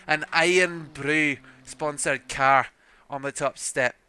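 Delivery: rough Irish-Scottish lilt; Celtic accent, somewhere between Irish and Scottish; attempted Scottish accent. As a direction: have a shaky go at a Scottish accent. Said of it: "whether that was more Irish or Scottish".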